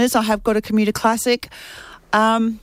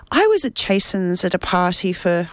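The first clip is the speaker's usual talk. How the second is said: reading aloud with a slip into an Irish accent; accidental Irish accent; 2 semitones lower than usual. Real, not acted. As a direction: let an unintended Irish lilt creep in. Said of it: "don't know why I've got an I-, Irish accent".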